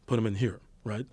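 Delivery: low voice placed in the chest; hero chest voice. Shown as a demonstration. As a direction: speak from down in the chest. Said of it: "if you speak from this voice".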